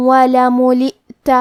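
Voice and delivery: ولملئت slow, tanween merged into و with a nasal hum; idgham with ghunna. Shown as a demonstration. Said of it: "غنہ اور تشدید کے ساتھ ادا". (ادغام بغنہ)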